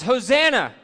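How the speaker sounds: "Hosanna" shouted high and loud. Shown as a demonstration. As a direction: lead the room in a loud "Hosanna". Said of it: "Wave your palm branches".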